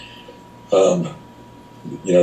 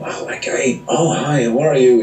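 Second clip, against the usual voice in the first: high, bubbly chatter, imitating her; chirpy flight attendant; 7 semitones higher than usual. Retelling a talkative seatmate greeting people, high and bubbly. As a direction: mimic the wired, over-friendly attendant.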